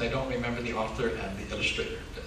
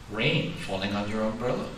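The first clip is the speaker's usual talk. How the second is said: slow, gentle picture-book reading; reading to children; slower than usual. A narrator's reading.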